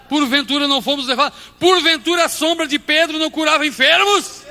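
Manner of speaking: loud, high preaching shout; full-force preaching. Acted. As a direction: proclaim it to the whole church. (pregação gritada com toda força)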